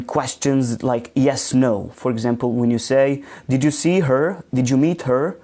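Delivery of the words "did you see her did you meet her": each "her" lifted at the question's end; rising intonation. Shown as a demonstration. Teacher lists yes-no questions for students, rising intonation. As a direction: raise the pitch on each final "her". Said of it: "So your intonation rises".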